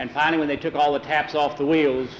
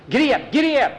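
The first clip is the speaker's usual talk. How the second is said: urging horses; 11 semitones higher, 3 dB louder, faster than usual. Acted. Fleeing man urges horses.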